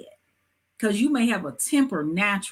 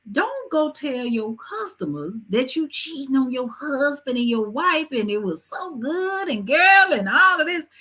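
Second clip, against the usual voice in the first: high-pitched, playful mock bragging; mock gossip; 6 semitones higher, 3 dB louder than usual. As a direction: exaggerate it like spilling juicy salon gossip.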